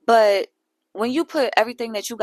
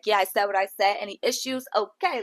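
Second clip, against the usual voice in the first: quick. Retold or imitated. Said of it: "actually sped up when she's like".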